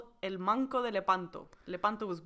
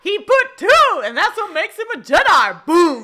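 loud, high, laughing through the words; 9 semitones higher, 14 dB louder, slower than usual. Real, not acted. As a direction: talk through a big laugh. Laughing while mocking the Jedi.

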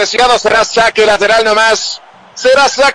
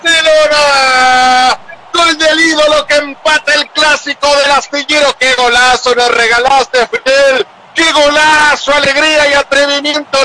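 breakneck goal commentary. Real, not acted.

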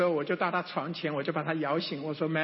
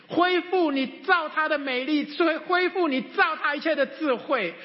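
fervent prayer; 7 semitones higher, 4 dB louder than usual. Acted. Father praying over his daughter, fervent and loud. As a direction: proclaim the blessing with full force.

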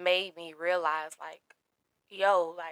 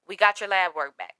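nonchalant doctor; 3 semitones higher than usual. Retold or imitated. Doctor phoning late with lab results, nonchalant. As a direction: mimic the doctor's casual, no-build-up delivery. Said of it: "this is how she's saying it".

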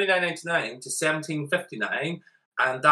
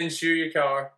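Irish accent. Real, not acted. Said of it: "another word I can't say 'cause I'm bloody Irish".

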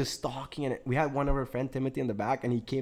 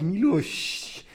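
high, loud urgent shushing; 7 semitones higher, 5 dB louder, slower than usual. Retold or imitated. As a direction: hush him hard, he's too loud. Hushing drunk friend in cinema.

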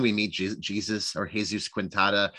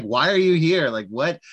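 mock indignant rich man; 5 semitones higher, 5 dB louder than usual. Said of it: "He's just like".

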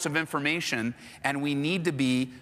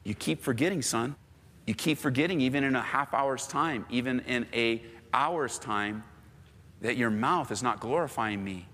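still small voice; 4 semitones lower than usual. Retold or imitated. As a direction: speak gently like a patient father. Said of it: "in that still small voice".

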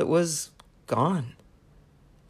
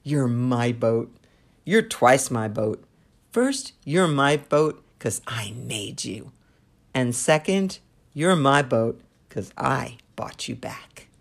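put-on boy cherishing his boat. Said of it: "he was heard saying".

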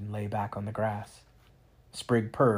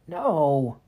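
quavering; 5 semitones higher, 6 dB louder than usual. A narrator's reading. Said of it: "her voice quavered".

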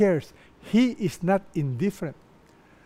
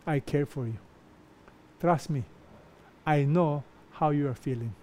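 softer, gentle voice of God speaking comfort; tender reassurance; 4 semitones lower, 5 dB quieter than usual. Acted. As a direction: lower and softer, as if whispering to a lonely child.

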